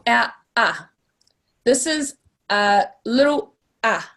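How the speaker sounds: ah kept short and clipped off; a little ah, quick vowel; short Māori a. Shown as a demonstration. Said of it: "So for our".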